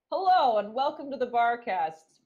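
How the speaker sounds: slow, emphatic podcast greeting; show host voice. Acted. Host greeting listeners at the top of the Barcast, announcer voice. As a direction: open the show loudly and slowly. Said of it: "put on my Flutter Priest voice".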